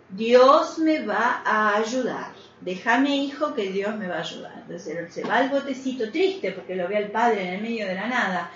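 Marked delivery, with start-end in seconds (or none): 0.1-4.5 slow, unhurried refusal of help; serene stubborn priest. Retold or imitated. Priest refusing the boatman's rescue, slow and serene. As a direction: calmly wave the boatman off, slowly.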